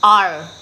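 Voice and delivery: the letter "R" sounded out by itself; R shown alone. Shown as a demonstration. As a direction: punch out a lone "R". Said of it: "They don't pronounce R".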